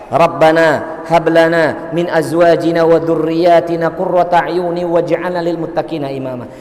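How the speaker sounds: slow, even Quran recitation; prayer recitation. Real, not acted. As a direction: recite the prayer in measured phrases.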